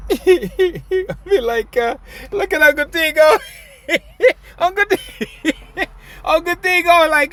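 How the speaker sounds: high, loud laughing through words; can barely get it out for laughing. Real, not acted.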